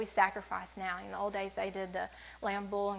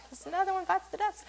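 high giggly laugh through the words; 9 semitones higher than usual. Real, not acted. Woman preacher laughing at her cat joke, high and giggly. Joking about sacrificing cats.

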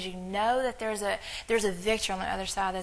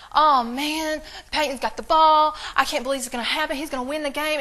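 imitated panic, higher and louder; tripping out; 5 semitones higher, 6 dB louder than usual. Preacher imitating a pastor panicking over the replayed game, loud. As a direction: play up the nervous fan losing it. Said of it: "he starts tripping out again".

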